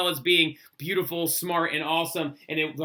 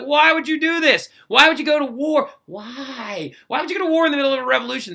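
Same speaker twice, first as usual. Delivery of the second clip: incredulous; 9 semitones higher, 5 dB louder than usual. Pretend. Mock outrage at going to war.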